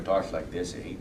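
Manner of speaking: lightly imitated Canadian accent with an "eh"; generic Canadian accent. Shown as a demonstration. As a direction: put on a stock Canadian accent. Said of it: "the generic Canadian accent".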